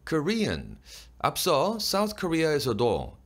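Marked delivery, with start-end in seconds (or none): 0.1-0.8 "Korean" with the accent on "ri-an"; higher-pitched "Korean", stressed on "re", nasal ending; stressed second syllable. Shown as a demonstration. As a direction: lift the "re" in "Korean". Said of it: "이어의 억양을 넣고".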